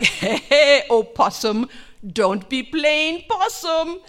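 loud, high mock scolding; calling to animal. Husband calls to possum playing dead, loud coaxing. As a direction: call out, dragging the last words.

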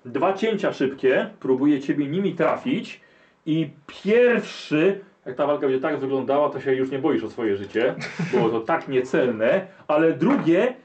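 slow suspense with quick asides; teasing, drawn-out blow-by-blow; game master combat narration. A narrator's reading. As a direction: stretch out key words before the letdown. Game master narrates enemy attack.

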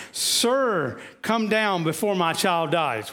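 an anxious, urgent plea to Jesus; upset plea. Retold or imitated. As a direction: beg him to come, a touch pressed. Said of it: "he's upset".

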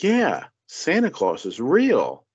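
a hint of a patronising adult; condescending mock voice. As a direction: imitate talking to a child. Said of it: "It's just like".

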